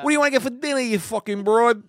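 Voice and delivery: high, loud crude husband act; mock sexy voice. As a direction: ham up a crude dinner question to your wife. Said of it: "That's not my sexy voice".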